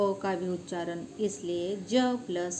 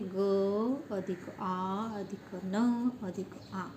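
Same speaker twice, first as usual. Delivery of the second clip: slow sounding out; much slower than usual. Shown as a demonstration. Teacher breaking गाना into sounds for children, slowly. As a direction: say ग अधिक आ अधिक न अधिक आ at half speed, every part spaced out. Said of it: "कितनी ध्वनि आती है?".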